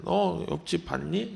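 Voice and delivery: nagging mom. Retold or imitated. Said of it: "엄마가 얘기하잖아요".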